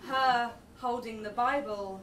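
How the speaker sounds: measured, slow poetry reading; poem recital. Acted. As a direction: read it like a spoken word poem.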